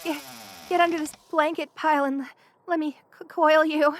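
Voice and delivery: stammering through chattering shivers; halting, shivery urging; shivering with cold. Acted. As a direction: break the words up as if freezing. Freezing, pulls visitor under blankets.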